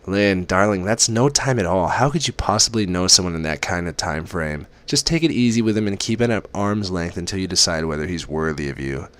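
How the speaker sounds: a fond mother fussing over her daughter; a hint of a doting mother on the phone; mother's voice.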